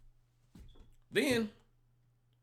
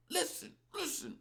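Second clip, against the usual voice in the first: half-whispered, high pleading hush; hushed urging; 13 semitones higher, 7 dB quieter than usual. Retold or imitated. Mom behind the uncle hushing him in a half-whisper.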